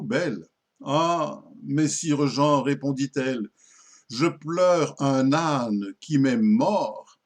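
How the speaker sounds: measured, phrase-by-phrase verse reading; poem recitation. Acted. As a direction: recite a little comic dialogue in verse, pausing between lines. (récitation de poème)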